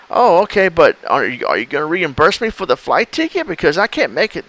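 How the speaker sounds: a hint of a clueless caller; naive victim voice. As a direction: ask it like you truly don't get it. Baiter plays confused victim.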